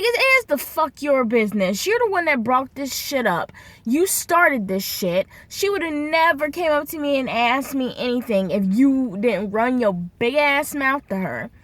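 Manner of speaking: heated, emphatic telling-off; retold angry confrontation. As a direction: act out firing back at a coworker. Retold quarrel with coworker.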